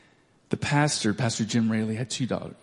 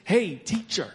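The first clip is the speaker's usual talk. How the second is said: higher, imitated Southern little-girl call; Southern accent; 4 semitones higher, 3 dB quieter, slower than usual. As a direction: mimic a Southern child wanting teacher's attention. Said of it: "a Southern accent".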